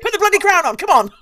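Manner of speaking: mock impatient king, laughing. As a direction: hurry her along, amused and exasperated. Voicing impatient King George.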